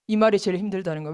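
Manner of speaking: ordinary delivery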